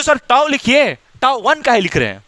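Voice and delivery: imitating a puzzled student, slow; mock student question. Teacher mimicking the student's question, slow. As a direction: play the student asking sir why tau one. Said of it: "तो बोलते हो".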